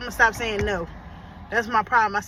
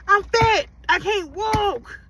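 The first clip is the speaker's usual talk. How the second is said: out of breath; 9 semitones higher, 4 dB louder, much slower than usual. Real, not acted. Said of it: "I'm out of breath".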